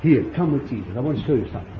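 soft, hushed come with me; gentle invitation. Acted. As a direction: draw them in quietly. Inviting listeners into scene.

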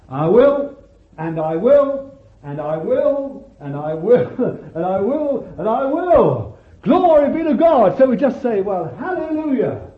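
exultant shouted praise; ecstatic preaching. Acted. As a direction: build to a shouting climax.

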